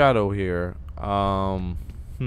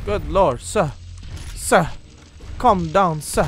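raised, higher voice in short bursts; alarmed protest; 6 semitones higher, 4 dB louder, slower than usual. Pretend. Player telling an enemy sir to calm down, alarmed protest. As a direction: plead loudly with an unruly enemy. Urgently scolding enemy in game.

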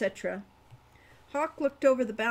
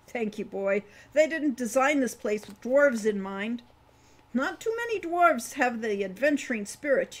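put-on higher, louder voice for a rambling old dwarf; 4 semitones higher, 5 dB louder than usual. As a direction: play the chatty old dwarf, a bit louder.

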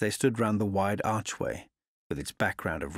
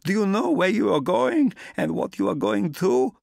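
put-on high, loud, urgent old woman's voice, slowing on the middle lines; distressed old landlady; 10 semitones higher, 5 dB louder than usual. A narrator's reading. Old landlady warning the traveller against going, distressed and pleading. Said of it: "She was in such evident distress".

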